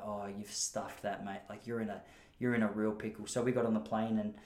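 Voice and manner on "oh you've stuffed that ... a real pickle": talking tummy. Pretend. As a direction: voice your upset stomach warning you. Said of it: "my tummy was like".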